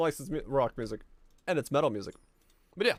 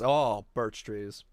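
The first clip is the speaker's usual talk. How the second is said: fond sigh; 4 semitones lower, much slower than usual. Real, not acted. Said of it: "admiring photos".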